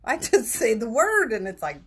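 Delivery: choking up mid-sentence, sob on the breath; real tears breaking through. Real, not acted. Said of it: "my eyes are tearing up".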